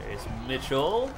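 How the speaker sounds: lightly voiced announcer, calm set-up of the name; Joe Buck call opener. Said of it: "That's my Joe Buck impression".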